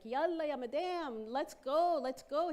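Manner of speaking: high, loud hurry-up call; impatient driver. Retold or imitated. Microbus driver hurrying Ida aboard, loud and high. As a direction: bark at her to get moving. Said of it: "the driver's like".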